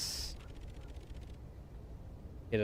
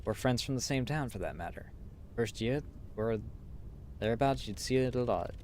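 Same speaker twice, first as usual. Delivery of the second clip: put-on British accent. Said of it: "I'm giving 'em British accent".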